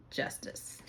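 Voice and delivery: hushed whisper of the card's name. Real, not acted. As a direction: breathe the word in awe. Drawing the Justice card.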